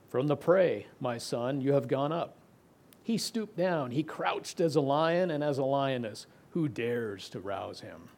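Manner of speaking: measured, declaiming Bible reading; scripture reading. Acted. Preacher reading Jacob's blessing to Judah to the congregation, in a declaiming scripture-reading voice. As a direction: proclaim the blessing like a reading from the pulpit. Reads Genesis 49 aloud.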